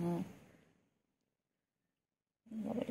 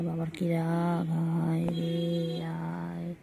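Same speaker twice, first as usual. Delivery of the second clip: slow coaxing; much slower than usual. Real, not acted. Coaxing angry pet.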